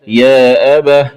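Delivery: أبه ending in breathed h; stop on ha. Shown as a demonstration. Teacher showing the stopped form, أبه closed with h. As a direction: pause on أبه as "abah". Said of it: "ووقف عليها بالهاء".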